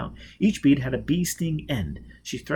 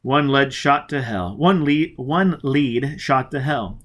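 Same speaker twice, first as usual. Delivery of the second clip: bitter frustration; 3 semitones higher, 7 dB louder, slower than usual. Acted. Foyle bitter over the lost lead.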